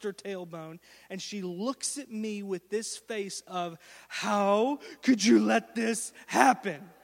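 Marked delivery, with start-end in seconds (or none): 4.1-6.9 imitating hurt daughter. Daughter's accusing look voiced.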